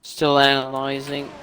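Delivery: flat mechanical robot voice. Real, not acted. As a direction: drone it like a computer. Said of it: "you sound like a robot".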